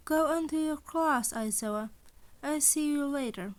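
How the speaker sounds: a hint of a smug animal principal; lightly voiced cheerful principal. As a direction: sound sweetly amused at his dread. Principal Nezu's voice.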